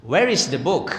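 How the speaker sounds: English question in a mock Jeporo regional accent; Jeporo-style English. Shown as a demonstration. Teacher imitates English Jeporo style, mock regional accent. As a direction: ask it with a local Jeporo accent. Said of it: "bahasa Inggris gaya, eh, gaya, eh, Jeporo itu".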